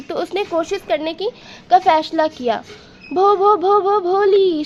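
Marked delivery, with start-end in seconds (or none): 3.1-4.6 stuttering on भो, repeating it before भोली; stammering. Acted. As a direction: stumble over भो again and again, then get भोली out. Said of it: "she began to stammer". (भो पर अटकते हुए हकलाकर)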